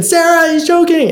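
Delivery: high, loud acted panic; retold yell for help. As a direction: re-enact shouting urgently to your wife in another room. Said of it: "I yell out again".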